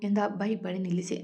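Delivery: plain reading voice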